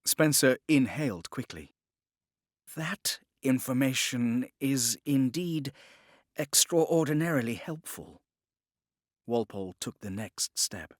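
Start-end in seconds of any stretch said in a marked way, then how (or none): 2.7-8.2 a captive gentleman making his offer; Spencer's voice. Acted. Spencer eager.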